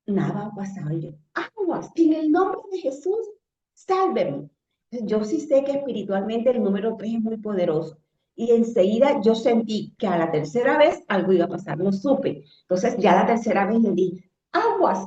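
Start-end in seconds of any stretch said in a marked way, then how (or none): 1.3-4.5 high, meek little plea to the water; pathetic plea. Retold or imitated. Pleading with the flood, meek and pitiful. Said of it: "Imagínense lo más patéticamente posible". 14.5-15.0 high sharp command; commanding the waters. Retold or imitated. Mother commanding the floodwater, a firm call. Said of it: "les hablé así".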